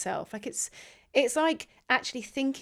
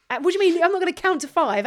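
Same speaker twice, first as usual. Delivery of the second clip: mock wailing; 8 semitones higher, 7 dB louder than usual. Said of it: "I'm wailing".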